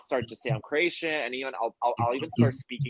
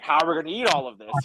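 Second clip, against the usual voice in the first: imitating dad's worry, quicker and higher; retold worried question, a bit louder; mildly worried; 4 semitones higher, 5 dB louder, faster than usual. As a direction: fret lightly in a quick, raised voice. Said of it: "getting worried".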